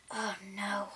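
soft unvoiced oh no; realizing with dread; hushed worry; whispered dismay.

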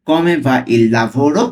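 very slow, drawn out; teacher slowing the question down for learners; slow reading. Shown as a demonstration. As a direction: stretch "Come va il lavoro?" slowly, each word apart. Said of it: "slowly পড়ছি".

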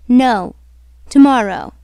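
refuse, then set the day firmly; firm refusal. Acted. Heroine refuses after hesitating.

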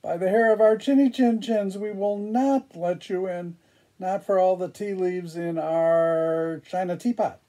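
high, quick little wolf voices; little wolves voice. Acted. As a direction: squeak it like frightened little wolves. Wolves answer the pig again.

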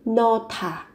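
"no thả" said with the sounds linked, the second syllable starting on an aspirated th; teacher shows how "no thả" links into one word with an aspirated th; linked pronunciation. Shown as a demonstration. Teacher shows students the linked pronunciation "no thả". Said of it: "chú ý nối âm lên, phát âm thành âm thờ".

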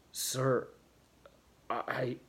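halting, broken-off start; faltering attempt. A narrator's reading. Stunned John attempts to answer the father, faltering. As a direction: try to speak and fail, pausing between words. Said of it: "he attempted".

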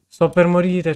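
half-yelled hungry complaint; a playful loud wail of hunger; loud mock despair. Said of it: "c'ho fame".

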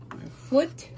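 high whispered "our foot" under the breath; whispered "our foot" while fiddling with the machine; muttered. Real, not acted. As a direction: breathe "our foot" to yourself, barely voiced. Repeats instruction, first muttered.

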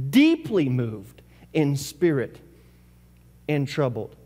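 slowed right down, each word weighed; slow emphasis. Shown as a demonstration. Preacher rereading the verse to the congregation, slow and weighty. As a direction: linger on "Deeply".

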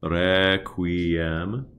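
"Requiem" with a light tapped R; gentle flipped R demo. Shown as a demonstration. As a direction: flick the tongue once on the R. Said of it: "give a gentle flip to all of the R's".

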